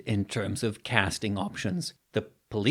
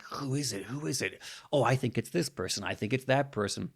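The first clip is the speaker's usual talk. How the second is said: hushed guessing; 6 dB quieter, faster than usual. Retold or imitated. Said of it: "watch the movie and be like".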